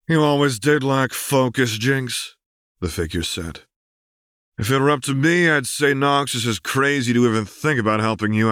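a scarred warrior taunting coldly; raspy. A narrator's reading. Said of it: "with the rasp of someone who had probably smoked".

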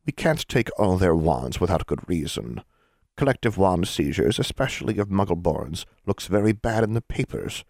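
put-on mild old witch. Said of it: "she said mildly".

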